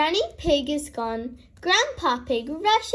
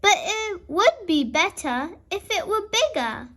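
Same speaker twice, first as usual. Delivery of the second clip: thoughtful; 4 semitones higher than usual. Acted. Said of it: "says Grandpa Pig thoughtfully".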